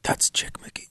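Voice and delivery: breathy retold whisper of gossip; mock whisper from people at the club; imitated whisper. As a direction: hush it like overheard gossip. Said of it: "you could hear whispers".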